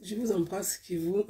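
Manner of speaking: soft goodbye dissolving into giggles; real quiet chuckle taking over; breaking into laughter. Real, not acted. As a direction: start sincerely, then lose it laughing.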